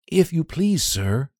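put-on high, small boy's voice, steadying himself; a frightened child trying to sound brave; brave little boy. Boy speaking up bravely to the squire. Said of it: "said the boy bravely".

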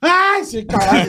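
startled cursing. Acted. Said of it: "Fala até um susto".

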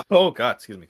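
choking on a sip of water; sputtering after water went down wrong; coughing up water. Real, not acted. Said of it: "Water went down the wrong way".

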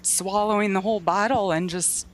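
fighting back tears while talking; crying. Real, not acted. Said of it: "Sorry, I'm crying now".

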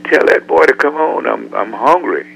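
impatient boss calling for his driver; impatient famous singer. Retold or imitated. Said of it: "he kept saying".

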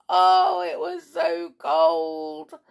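shivering cold. A narrator's reading. Narrator feels the cold.

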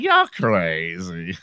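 slow, stretched mock Black American slang; imitated Black slang accent. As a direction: draw it out in put-on Black American speech. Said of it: "white people trying to sound like black folk".

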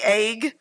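"egg" drawn out as "ayg"; slow Northern-style "egg"; Northern pronunciation. Retold or imitated. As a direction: mimic the long A in "egg". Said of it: "you say it like it's spelled".

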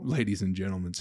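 "gentlemen" echoed with a stray final S; mock your slip, adding S after "gentlemen"; repeated plural slip. Podcaster mocking his own slip, "gentlemen" with an added S. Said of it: "put the S on it like a fucking idiot".

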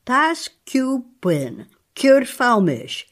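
drawn-out, strained sounding of Taskupin and Kurfaumisch; strained odd sounds. Shown as a demonstration. Host hears her struggle with the names, drawn out and strained. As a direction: wrestle the syllables of Taskupin out slowly. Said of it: "You sound almost ill, these sounds".

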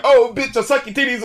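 high, mocking rapper voice; mock hardcore rapper. Reviewer mocking a singer's cursing lyrics. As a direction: sneer it like a cussing rapper. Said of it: "such a hardcore rapper".

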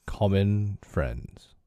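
slow, slightly hoarse echo of the words; a little hoarse. Acted. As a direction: echo it back slowly with a touch of hoarseness. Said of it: "a little hoarsely".

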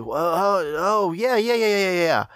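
feigned recognition. Retold or imitated. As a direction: pretend you know who she means. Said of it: "I'm like".

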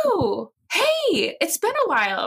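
high friendly villager voice; Miss Bianca voice. Retold or imitated. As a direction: greet an old friend, pitched high. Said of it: "she's like".

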